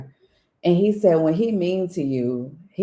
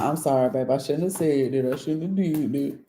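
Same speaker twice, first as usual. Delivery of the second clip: retold apology; 2 semitones lower, 4 dB quieter than usual. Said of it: "He like".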